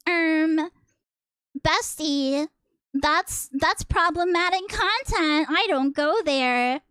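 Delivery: a hint of a Valley Girl bot refusing; Valley Girl chatbot. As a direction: lightly play a ditzy AI bestie. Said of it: "You do have a bit of a Valley Girl tone".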